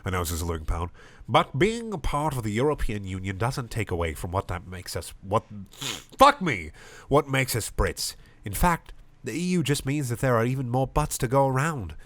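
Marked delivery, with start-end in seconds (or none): 1.3-12.0 put-on Irish-accented rousing speech; rally the crowd, Irish accent. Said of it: "all Irish voices".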